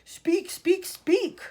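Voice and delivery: loud and high, growing into a frightening shout; building shout. A narrator's reading. Alien voice shouting at the terrified family. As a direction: rattle their eardrums. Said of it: "getting louder and louder".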